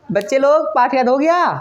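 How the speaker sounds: lightly voiced guru checking on pupils; teacher addressing class. Guru asks the children about their lesson, teacher addressing class.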